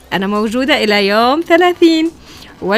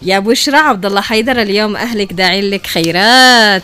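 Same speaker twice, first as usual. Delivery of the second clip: booming prize announcer. Real, not acted. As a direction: proclaim the winner with big excitement. Announcing the prize winner live. (إعلان الفائز بصوت مدوٍّ)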